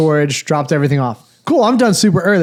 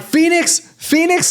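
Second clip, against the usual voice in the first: mock distant yell; 12 semitones higher, slower than usual. Traveler yelling at the gate person fifty yards away, high mock call. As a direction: imitate calling out to someone far off. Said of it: "like, yelling at the person probably fifty yards away".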